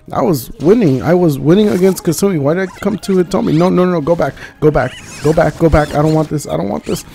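high, loud, frantic pleading; frantic protest. Real, not acted. Streamer losing to Hitomi, frantic high protest. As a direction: protest loudly, voice pushed high.

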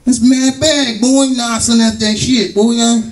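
high, drawn-out complaint; mock protest. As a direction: play up the disbelief, pitched high. Acted reaction in a story.

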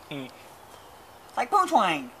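very slow, stretched-out punchline; slow drawl. Acted. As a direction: drag it out for the joke. Stretched-out punchline after laugh.

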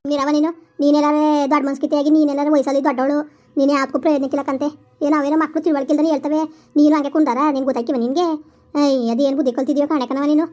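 loud furious tirade at an elder; angry scolding. Acted. Mother loudly scolds grandma for allowing the elopement. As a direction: tear into grandma, loud and relentless.

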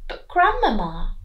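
lightly voiced little girl; sweet, innocent question. Red Riding Hood admiring the coat, light girl voice. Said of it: "Little Red Riding Hood said".

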